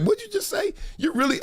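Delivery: high-pitched outraged "what'd you just say"; indignant challenge. Pretend. Host imagines confronting a rude interviewer, high and indignant. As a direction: snap back at him in mock disbelief. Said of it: "Be like".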